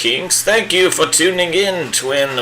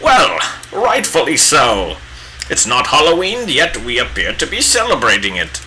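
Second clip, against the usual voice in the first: bad Gandalf impression. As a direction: play a pompous old wizard, badly on purpose. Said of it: "the worst Gandalf impression".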